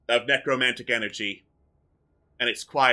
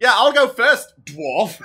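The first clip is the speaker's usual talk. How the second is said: high, loud character voice; Zordan; 10 semitones higher, 7 dB louder, slower than usual. Acted. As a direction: boom it out like a brash hero. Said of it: "says Zordan".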